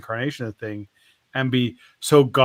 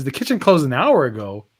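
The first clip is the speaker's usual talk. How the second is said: louder, disbelieving echo question; incredulous; 6 dB louder than usual. Acted. Shark hearing the kitchen has closed, incredulous. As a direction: act out a customer shocked by the news.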